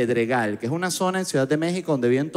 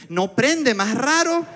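extrañeza mal disimulada, muy aguda; inocencia fingida; 10 semitones higher, much slower than usual. Retold or imitated. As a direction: hacerse el desentendido con voz aguda. Feigns ignorance to the technician. (haciéndose el inocente)

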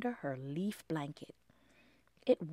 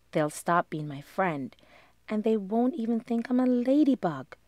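anxious prayer; 7 dB louder than usual. Acted. Lindy prays anxiously.

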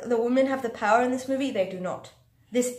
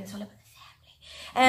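mock whisper; 3 semitones lower than usual. Mocking The Rock's family line.

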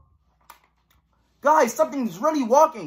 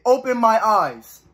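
slow mock monster; 4 dB louder, slower than usual. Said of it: "and said".

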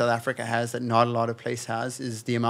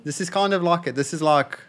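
a stronger South African accent, a bit higher; 5 semitones higher than usual. Shown as a demonstration. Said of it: "This is the South African accent".

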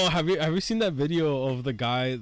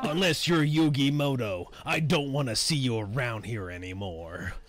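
Kaiba voice. Acted. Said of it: "give him the Kaiba voice".

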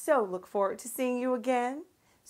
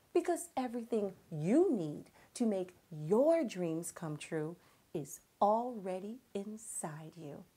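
soft whisper; 3 semitones lower, 7 dB quieter than usual. Real, not acted. Heartfelt message to children.

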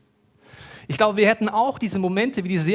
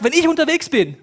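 rising, louder proclamation; excited, louder and higher; 6 semitones higher, 7 dB louder than usual. Acted. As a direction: sweep them up with the stadium image. Preacher voicing Jesus, excited.

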